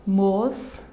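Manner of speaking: "Mosquito" in separate beats: mos, qui, to; long pauses between the syllables of "Mosquito". Shown as a demonstration. Teacher showing a three-syllable word, syllable by syllable. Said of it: "Também é uma palavra trissílaba".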